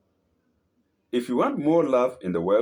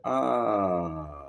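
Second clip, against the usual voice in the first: echoed cry; 3 semitones lower than usual. Shown as a demonstration. Demonstrates the echoed scream.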